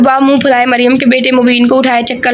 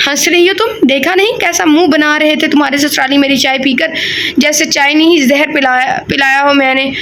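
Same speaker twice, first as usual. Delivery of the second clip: angry retort; 2 semitones higher than usual. Acted. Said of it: "Faria को और गुस्सा आया।".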